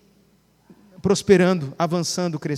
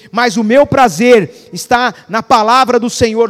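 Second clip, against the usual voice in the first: louder, proclaiming each line; loud declaration; 4 dB louder than usual. Shown as a demonstration. Pastor declaring the psalm over the church, loud. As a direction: declare it like a victory. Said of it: "Aí continua".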